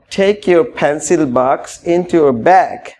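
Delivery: tie your tie stretched out very slowly; slow model phrase. Shown as a demonstration. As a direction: draw out each word for learners. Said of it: "আবার বলুন".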